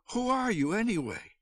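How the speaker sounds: high-pitched storyteller's scream; screamed question. A narrator's reading. Mother screaming at an unknown visitor, high-pitched. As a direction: pitch leaps up in a contained scream. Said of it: "What she screamed was".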